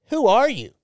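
high, punchy retold question; incredulous demand. Stranger questioning the men let past the rope, incredulous. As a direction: mimic a baffled stranger wanting answers.

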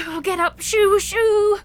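high, loud shooing call. Acted. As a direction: call out to drive a bird away. Shooing the stunned seagull.

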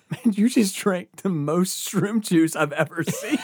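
high, loud, drawn-out disbelief; retold amazement. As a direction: imitate a stunned friend through laughter. Friend's amazed quote, crowd laughing.

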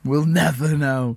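slow, drawn-out echo; mock mysterious echo. Echoing co-host on the referee, mock-solemn drawl. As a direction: stretch it out with mock gravity.

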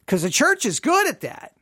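usual speaking voice

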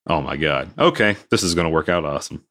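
low, soft deadpan disbelief; quiet sarcastic oh my God; deadpan sarcasm. Retold or imitated. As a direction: mutter it, dripping sarcasm. Sarcastic reaction to quick certification.

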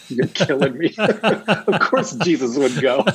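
laughing through the retold reply; amused laughing quote. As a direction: chuckle the words out, caught off guard. Laughing while retelling the answer.

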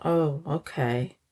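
imitating an offhand, unbothered shrug; mock-casual suspect brushing off a murder accusation; casual nonchalance. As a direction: say it like murder is no big deal, slow and soft. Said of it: "just casual and nonchalant he was? Soft-spoken".

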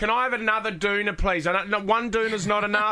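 hammy poorly voice, high; mock sick voice. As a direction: whine like you're bedridden. Pretending to fake illness.

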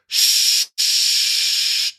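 long unvoiced shh sound; long shush. Shown as a demonstration. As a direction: shush steadily like steam. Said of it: "nice long".

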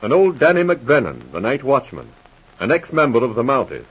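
measured announcer read of the cast and scene; radio announcer narration. A narrator's reading. Announcer to the audience, measured radio narration. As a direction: introduce the episode to listeners like an old radio announcer.

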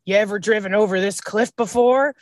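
imitating a light Southern accent. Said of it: "I don't know where his Southern accent came from".

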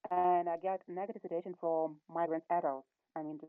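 choppy, cut-off bad connection; breaking up like a dropped call; cutting out. Real, not acted. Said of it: "I think you're cutting out a little bit there".

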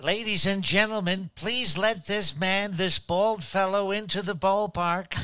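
lightly voiced ballpark PA announcer; stadium announcer. Pretending to be Dan Baker announcing a fan into the ballpark, light announcer voice. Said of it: "Pretend to be Dan Baker".

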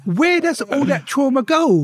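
high, slow rhetorical question; emphatic question. Real, not acted. Telling the interviewer about his trauma, high and slow. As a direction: lift it up and draw it out.

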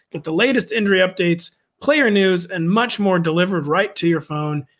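upbeat sponsor read; hard sell ad. Acted. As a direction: pitch it like a radio spot. Host reads ad.

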